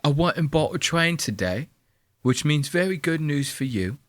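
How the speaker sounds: lightly voiced menacing husband; mock creepy husband. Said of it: "He's like".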